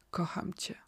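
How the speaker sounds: hushed, intimate words into an ear; quiet, understated storybook whisper; soft near-whisper. A narrator's reading. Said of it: "szepnęła mężowi do ucha".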